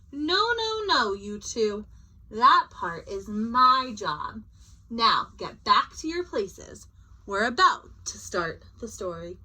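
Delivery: put-on bossy teacher putting kids back in place; firm scolding. Sam scolding states to places.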